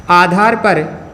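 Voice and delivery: halting chunks with long pauses; writing-pace dictation. Real, not acted. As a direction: repeat in chunks while writing. Writes the phrase while saying it.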